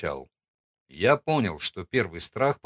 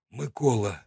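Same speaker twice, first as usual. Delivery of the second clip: forced out under pressure; 3 semitones higher, much slower than usual. Acted. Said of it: "выдавил он".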